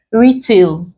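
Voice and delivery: "Retail" with the weight on "Re"; stress on first syllable. Shown as a demonstration. Teacher showing the odd one out, first-syllable stress on "Retail". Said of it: "we stress the first syllable".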